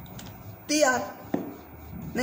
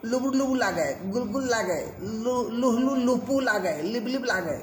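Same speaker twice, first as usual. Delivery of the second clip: lightly voiced local marvelling at softness; villager saying it feels soft; 2 semitones higher than usual. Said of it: "बोले".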